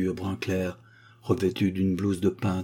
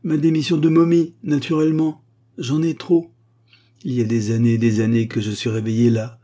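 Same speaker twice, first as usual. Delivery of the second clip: higher, louder indignant mummy; ranting mummy; 4 semitones higher, 4 dB louder than usual. Acted. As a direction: pour out every grievance. Mummy's long rant to curator.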